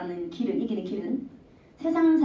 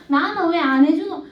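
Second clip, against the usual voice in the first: son's complaint; 4 semitones higher, 4 dB louder than usual. Retold or imitated. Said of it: "막 부르키 가지고".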